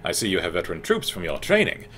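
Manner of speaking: haughty elf reining in a rookie; lightly voiced elven mentor; Altmer voice. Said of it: "give him my Altmer voice".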